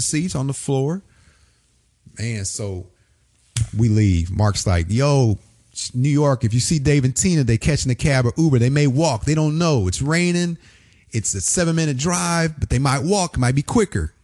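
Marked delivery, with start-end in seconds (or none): 4.9-14.1 high, rolling imitation of a radio host; imitated host putting out a citywide alert; radio host on air. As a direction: announce it to the city, pitched up. Radio host addressing listeners, retold.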